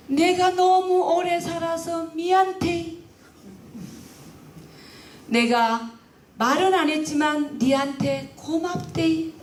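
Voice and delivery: put-on slow, high, trembling old mother's plea; a hint of a frail old mother, slow and high; tearful old mother. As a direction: speak as a dying mother asking forgiveness, nearly singing. Dying mother thanks daughter-in-law.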